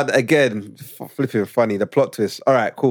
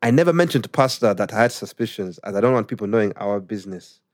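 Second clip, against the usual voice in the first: put-on Ugandan accent; 3 semitones lower than usual. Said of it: "when I read it in Ugandan accent".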